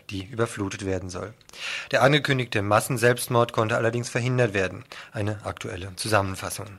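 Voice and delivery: steady radio news reading. Acted. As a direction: read the headlines like a radio presenter. Reads the programme preview.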